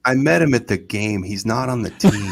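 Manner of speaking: loud, emphatic correction, imitated; exasperated son. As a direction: set Dad straight, mock exasperation. Imitates son correcting his father.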